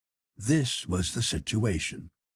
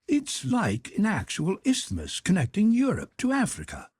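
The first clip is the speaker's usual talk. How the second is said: higher, deferential manservant voice; Conseil the servant; 11 semitones higher than usual. Acted. Servant Conseil respectfully objects to his master, in a higher voice. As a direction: play the polite valet objecting gently.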